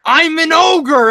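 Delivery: high, slow Shrek impression; hammed-up ogre line, drawn out. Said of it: "she goes".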